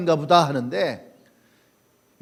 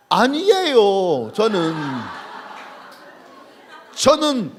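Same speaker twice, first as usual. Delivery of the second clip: dragged-out denial; much slower than usual. Acted. Peter denying, drawn out.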